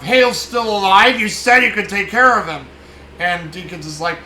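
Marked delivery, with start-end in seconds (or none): 0.0-2.7 louder, rising shocked outburst; he can't believe the job failed; alarmed disbelief. Retold or imitated. Pritchett confronting Deakins about Hale, loud alarmed disbelief.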